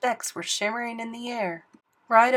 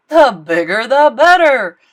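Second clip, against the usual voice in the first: laughing; 4 semitones higher, 15 dB louder than usual. Acted. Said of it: "laughed the king".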